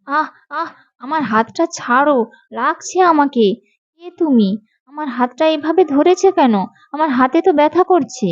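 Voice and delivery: pained protest. Acted. Girl to the witch gripping her hand, pained protest.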